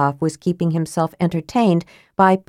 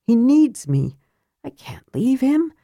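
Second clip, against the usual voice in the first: higher, pleading big brother; torn big brother; 8 semitones higher than usual. A narrator's reading. Caramon torn about brother.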